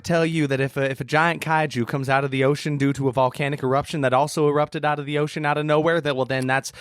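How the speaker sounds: lightly voiced scolding parish lady; preachy, slowing down on the sins; judgy church lady. Church lady warning sinners of a sea monster, mock judgy. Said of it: "we're here at the judgy church ladies".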